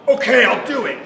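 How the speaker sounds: high, loud mock eagerness; eager kid agreeing. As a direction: imitate a kid jumping at the chance. Acting the kid's eager agreement.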